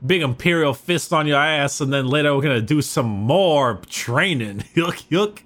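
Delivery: put-on Southern hick with a Cajun lilt; Cajun-sounding Southern hick. Hick outlining a recruit's training, mock Cajun-Southern accent. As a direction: parody a yokel in a Cajun-tinged Southern accent. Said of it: "you sounded Cajun when you did my impression of Southern".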